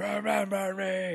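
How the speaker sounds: slow, eerie ghostly plea; haunt them with it; dramatic remember me. Pretend. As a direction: ghost voice pleading slowly. Echoing a catchphrase.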